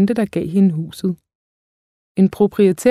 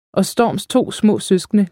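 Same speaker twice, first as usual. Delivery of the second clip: usual speaking voice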